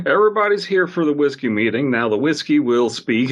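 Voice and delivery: a playful, hammed-up whiskey-voiced speaker; mock whiskey voice. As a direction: ham it up like a tipsy Kentucky orator. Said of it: "a whiskey voice is what you hear at a politician meeting".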